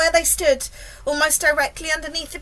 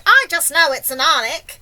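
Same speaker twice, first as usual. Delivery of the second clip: loud, raised, insistent cry; screamed alarm; 4 semitones higher, 9 dB louder than usual. A narrator's reading. Fire chief is sure of the monster, screaming. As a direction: insist on it at a yell. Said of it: "screamed the head".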